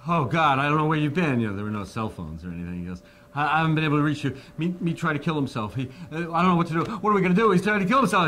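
high, loud, fast panicked rush of words; hysterical panic. Retold or imitated. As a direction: blurt it out in a frantic, hysterical panic. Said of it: "Rory's in complete hysterics and going".

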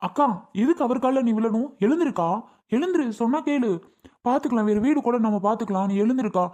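shocked son begging mother to stand; alarmed high pleading. Acted. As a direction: voice jumps up in alarm. Son pulls mother off landlord's feet.

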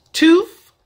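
"tooth" said as "toof". Shown as a demonstration. Vlogger giving the next example word, "tooth" as "toof". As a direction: end "tooth" on an F. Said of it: "when I just said tooth to you guys".

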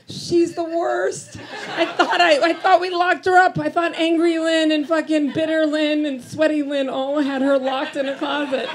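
high-pitched, exasperated rant; mock exasperation. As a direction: complain loudly in comic dismay. Exasperated rant about her flirty self.

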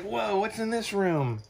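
high, slow wide-eyed cat voice; voicing the cat. Voicing what the cat thinks of the new room, high and slow. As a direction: speak for the curious cat, all wonder. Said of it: "He's like".

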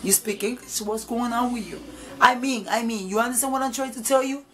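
imitating a pushy young man telling someone off; mock confrontational scolding with some attitude; tough attitude. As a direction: act out his tough talk, mildly. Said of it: "Come with attitude and tough".

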